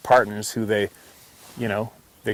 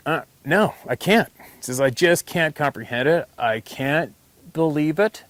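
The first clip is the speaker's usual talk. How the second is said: baffled disbelief; 5 semitones higher than usual. Retold or imitated. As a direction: voice the friend who just can't buy it. Friend voiced doubting.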